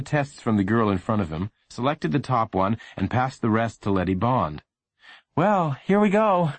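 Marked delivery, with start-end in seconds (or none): 5.3-6.5 false liveliness. Acted. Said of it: "he said with false liveliness".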